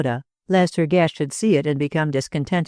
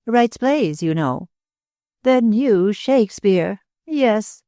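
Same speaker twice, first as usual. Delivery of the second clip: higher, chattering lady's voice; babbling society hostess; 6 semitones higher than usual. A narrator's reading. Hostess prattling to Claude about lawsuits, higher chatter. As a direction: prattle on, pleased with yourself.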